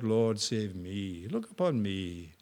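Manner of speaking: humble prayer. Shown as a demonstration. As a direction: pray it humbly. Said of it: "Have you cried out".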